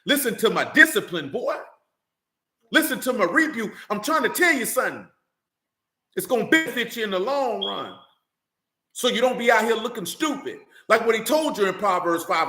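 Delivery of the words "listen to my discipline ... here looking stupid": a hint of a stern father lecturing; lightly voiced Solomon telling his boy to listen; father instructing son. Solomon instructing his son, mild stern father voice. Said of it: "that's why you see that so much in Proverbs".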